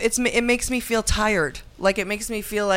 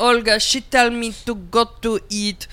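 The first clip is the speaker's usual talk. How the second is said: put-on Russian accent. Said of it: "I can't do a Russian accent".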